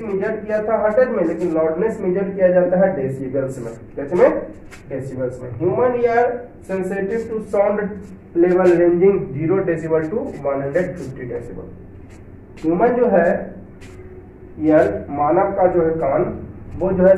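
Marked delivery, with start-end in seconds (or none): 5.6-11.7 reads the English line aloud slowly, word by word; slow textbook reading. Shown as a demonstration. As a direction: dictate it slowly to the class. (धीमे स्वर में किताब से पढ़ना)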